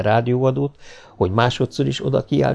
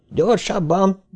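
high urging shout; shouting faster; 9 semitones higher, slower than usual. Acted. Donovan yells at the robot for speed, shouting. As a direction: call out for more speed. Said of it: "kiáltotta Donovan".

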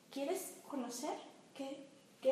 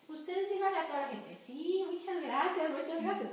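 polite thanks; 3 semitones higher, 4 dB louder than usual. Retold or imitated. Doctor coaching the parents to thank advisers politely. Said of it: "Me decía".

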